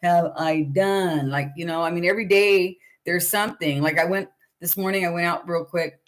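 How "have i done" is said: slow dismayed thought. Retold or imitated. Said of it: "and I'm thinking".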